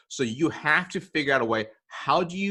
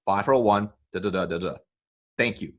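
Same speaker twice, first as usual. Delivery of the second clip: direct voicemail script. Shown as a demonstration. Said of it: "the script sounds like this".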